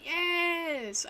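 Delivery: loud, high, drawn-out cheer; real burst of triumph; triumphant. Real, not acted. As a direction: cry it out in delight at finding the word. Finds the word she was searching for.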